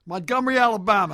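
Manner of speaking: put-on Alabama Southern accent, playing it up; fake Southern accent. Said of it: "How's that sound?".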